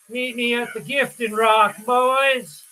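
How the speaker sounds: a hint of the creepy old guy's Southern voice; creepy Southern old man. Streamer echoing the game's creepy old man, light Southern imitation. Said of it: "And that's how he sounds".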